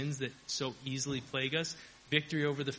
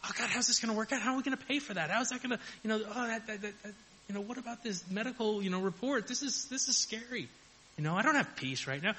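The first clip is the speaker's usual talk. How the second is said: mock panic; 7 semitones higher, faster than usual. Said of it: "And I'm like".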